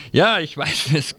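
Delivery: a quick embarrassed laugh on ja; sheepish chuckle, then ja. Real, not acted. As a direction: laugh it off after the slip. Laughs at own wrong article.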